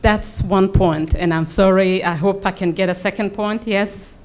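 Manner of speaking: usual speaking voice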